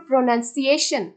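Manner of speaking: প্রনাউন্সিয়েশন with a stronger সিয়েশন; stress on সিয়েশন. Shown as a demonstration. Teacher demonstrating word stress, stronger সিয়েশন in প্রনাউন্সিয়েশন. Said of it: "সিয়েশনকে যখন বলছি তখন একটু কি loudly বলছি".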